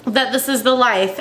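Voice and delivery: tearful, voice breaking, talking through tears; crying while trying to keep talking; snotty crying. Real, not acted. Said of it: "I'm sorry to cry about it".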